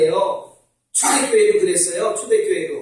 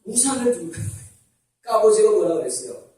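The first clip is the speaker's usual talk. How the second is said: ordinary talk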